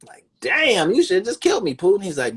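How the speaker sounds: usual speaking voice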